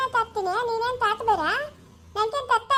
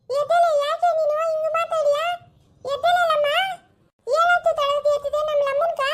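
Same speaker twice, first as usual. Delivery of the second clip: raised, worried plea to wake up; begging her to get up, voice pitched up; anxious pleading; 5 semitones higher than usual. Acted. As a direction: daughter urging her collapsed mother to wake, anxious and raised. Pleading with mother on floor.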